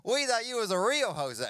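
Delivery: slow, high, loud mock disbelief; incredulous dad. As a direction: play a baffled dad, drawing it out. Girlfriend's dad reacts in disbelief.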